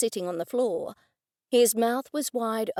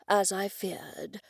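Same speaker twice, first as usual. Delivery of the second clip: whisper; 5 dB quieter, slower than usual. Acted. Gloomy admission.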